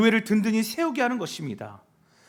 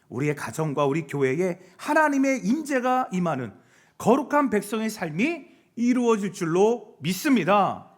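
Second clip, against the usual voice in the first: ordinary talk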